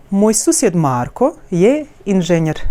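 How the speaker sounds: "Moj susjed Marko je inženjer" as one connected melodic wave; sentence-wide wave. Shown as a demonstration. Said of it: "we also have the situation with wave".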